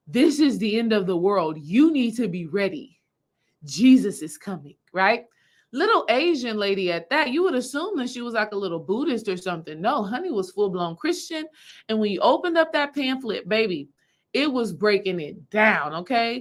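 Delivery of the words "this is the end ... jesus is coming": mock frightened but certain street-preacher voice. Retelling what a little Asian lady came up and said, retelling fearful conviction. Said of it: "fear in their heart, conviction in their voice".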